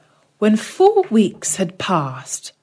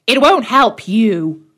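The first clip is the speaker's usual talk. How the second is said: put-on old hag; 3 semitones higher, 4 dB louder than usual. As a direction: sneer it like a cruel old hag. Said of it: "said the old hag".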